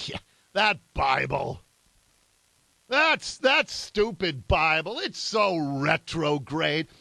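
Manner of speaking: mock the critics with heavy sarcasm; mock scorn. Mocking the column's word retrograde.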